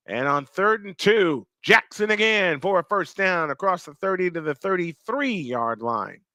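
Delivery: lively football call, settling at the end; live play-by-play. Real, not acted. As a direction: call the first-down run.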